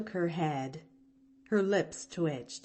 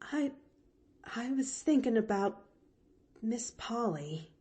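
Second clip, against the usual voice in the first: faltering; 4 semitones higher, 3 dB quieter than usual. Acted. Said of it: "faltered Nancy".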